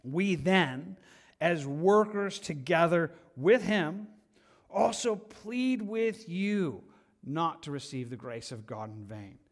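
slow, weighty scripture reading. Acted. Preacher reads the verse to church, slow and weighty. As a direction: read the verse like a plea.

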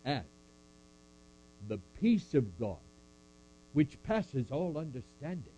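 solemn measured recitation; scripture recitation. Acted. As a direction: recite it like a benediction.

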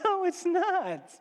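high, slow whine; dismayed denial. Acted. Host inwardly answers the smiling magus, dismayed. Man despairing at magus's delight.

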